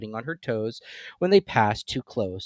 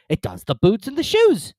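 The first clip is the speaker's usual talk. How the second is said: solemn; 13 semitones higher, 10 dB louder than usual. A narrator's reading. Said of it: "replied very solemnly".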